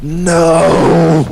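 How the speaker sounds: sudden high yelp of horror; shocked no. Retold or imitated. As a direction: blurt it out in shock. Horrified shout at friend's attack.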